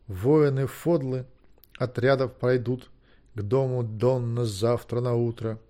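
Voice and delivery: slow, measured chant-like reading; slow, monotone poem recital; droning verse recitation. A narrator's reading. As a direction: drone the old verse line by line. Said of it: "бубнил Гвидион".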